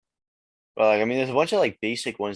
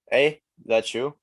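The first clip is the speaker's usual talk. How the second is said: louder, slow hail, raised in pitch; getting attention; 4 semitones higher, 5 dB louder, slower than usual. Shown as a demonstration. Canadian demonstrating "eh" to the host, slow attention-getting call. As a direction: lightly call out to someone nearby. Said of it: "to get someone's attention".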